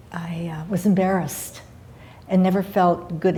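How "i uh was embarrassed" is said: whispering. Real, not acted. Admitting childhood shame.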